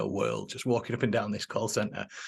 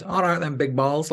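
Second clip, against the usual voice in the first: higher-pitched mocking Manc accent; Bazza; 4 semitones higher, 4 dB louder than usual. Sales manager taking up a challenge, mock Manc accent. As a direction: imitate a cocky Manchester accent. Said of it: "like he does in this accent".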